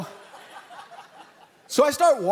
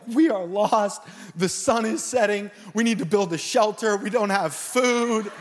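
mock panic; 3 semitones higher than usual. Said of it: "we go to full panic mode".

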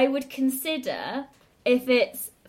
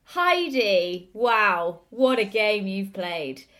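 game show host voice; much slower than usual. Pretend. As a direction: announce the score like a cheesy quiz host. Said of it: "your happy Michael Barrymore game show host voice".

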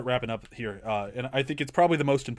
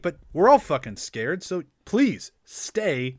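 acted pleading; 4 semitones higher than usual. Voices Mike pleading with a shipmate.

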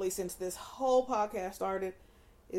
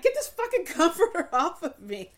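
mock hot outburst; 6 semitones higher, 5 dB louder than usual. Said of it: "Because it's like".

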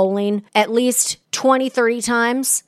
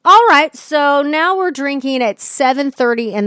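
mock cheer, dripping sarcasm; sarcastic; 4 semitones higher than usual. Real, not acted. Sarcastic reaction to morning drinking.

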